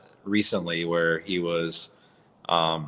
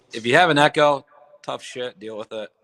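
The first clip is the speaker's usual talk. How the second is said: blunt; 6 semitones higher, 5 dB louder than usual. Real, not acted. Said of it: "that's just me being raw and transparent".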